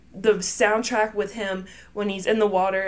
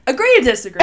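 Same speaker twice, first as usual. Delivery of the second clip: helpless giggle through the words; laughing; 2 semitones higher, 6 dB louder, much faster than usual. Real, not acted. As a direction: crack up while saying it. Both crack up over disagreement.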